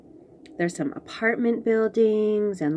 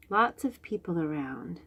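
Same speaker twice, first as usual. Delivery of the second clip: whisper; 3 semitones lower, 5 dB quieter than usual. Real, not acted. Pointing out crowd in pictures.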